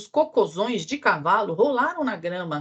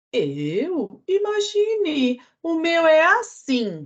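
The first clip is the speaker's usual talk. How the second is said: high, slow drawn-out cow voice; 9 semitones higher, much slower than usual. Acted. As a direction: stretch out "Imagine" way up high like a lazy cow. Vaca responde. (vaca falando devagar e bem aguda)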